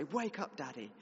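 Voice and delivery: put-on high toddler call on wake. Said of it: "probably a bit louder".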